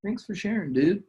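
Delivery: high, airy, brushing it off; answering the doubting inner voice, high and breezy; breezy dismissal. Pretend. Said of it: "So you say".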